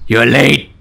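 lightly growled Batman-like voice; a touch of angry, strict menace; angrier voice. Shown as a demonstration. Player tries a voice for the strict girl, angrier voice. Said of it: "give her a more angrier voice".

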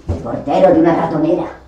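ordinary delivery

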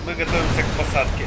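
flight attendant. Pretend. Joking in-flight announcement while flying.

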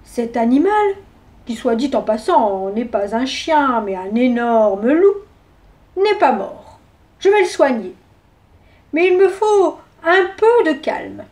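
a steady doctor settling the room; calm doctor. Acted. Doctor explaining calmly.

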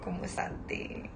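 loud hammed-up Italian greeting; mock Italian. Greeting Yubi in loud mock Italian. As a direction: belt out a fake Italian hello.

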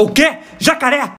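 alarmed realisation. Acted. Swimmer suddenly grasps the danger.

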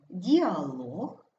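діалог stressed on the final syllable, діа-ЛОГ; stress on last syllable. Shown as a demonstration. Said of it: "ми маємо говорити правильно". (діалог з наголосом на ЛОГ)

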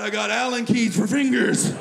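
rising mock-horrified shout; stoned horror. Stoned comic looking at his fingers, loud mock horror. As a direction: cry out in hammed-up alarm.

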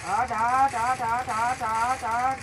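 loud repeated hut hut; shouting. Real, not acted. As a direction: yell at them to back off. Shouting at enemy in fight. (चिल्लाते हुए हट हट)

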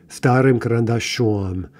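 карандашом stressed on the final -ом; stressed ending. Shown as a demonstration. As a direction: put the stress on the last syllable of карандашом. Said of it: "that one happens to be in stressed".

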